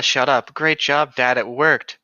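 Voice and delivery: hammed-up Bella cheering on her dad. Bella mock-cheering her dad for the shotgun, loud. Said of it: "as Bella".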